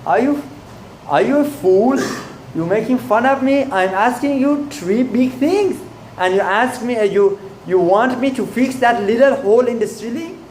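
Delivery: indignant king, pitch pushed up high; an offended emperor scolding a fool; king offended by a petty request, speaking high and indignant; upset, angry Napoleon. A narrator's reading. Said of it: "Napoleon becomes upset and angry".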